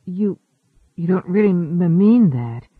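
halting stammer, stuck on a word. Acted. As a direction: stumble over the words. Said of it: "before he could stammer".

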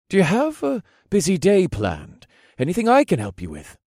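put-on high, eager young man's voice; chipper lieutenant. A narrator's reading. Lieutenant offering the hero help with the day, chipper. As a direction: ask helpfully with lifted, perky pitch.

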